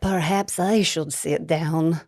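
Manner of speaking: put-on lightly accented Russian woman; a hint of a Russian circus strongwoman. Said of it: "trying to do a Russian accent".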